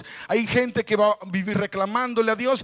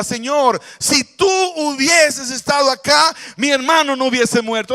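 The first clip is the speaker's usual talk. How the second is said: hurt plea; 4 semitones higher, 5 dB louder than usual. Acted. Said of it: "Marta estaba dolida".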